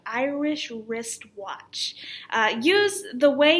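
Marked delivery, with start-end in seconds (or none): 0.0-1.9 slow "Irish wristwatch", every sound squeezed out; scrunched-up articulation. Shown as a demonstration. Teacher showing how it feels, scrunched-up articulation. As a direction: stretch "Irish wristwatch" through a scrunched-up face. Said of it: "very in your face and scrunched up".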